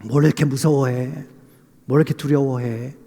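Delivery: lightly voiced reassuring father; fatherly reassurance. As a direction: soothe a frightened child like a father. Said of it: "아빠가 아들에게".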